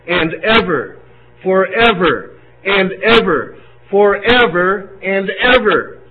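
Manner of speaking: slow, lifted recitation of the lyrics; recited hymn lyrics. Acted. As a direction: proclaim the chorus words slowly, building through the repeats. Reads Hallelujah Chorus lyrics aloud.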